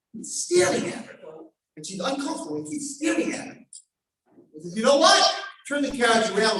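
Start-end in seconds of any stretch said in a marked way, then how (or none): 4.8-6.6 loud, higher announcement; sudden decision. Acted. King decides to turn back.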